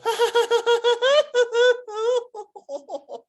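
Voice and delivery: long, loud, very high-pitched put-on laugh; Alex laugh impression. Teacher imitates someone's laugh for class, high loud cackle. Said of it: "I can sound like Alex".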